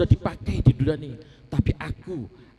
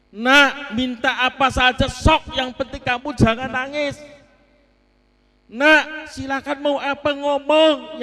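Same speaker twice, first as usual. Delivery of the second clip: a lightly voiced parent pleading gently with a sulking child; coaxing parent; 2 semitones higher than usual. (orang tua membujuk anak yang ngambek)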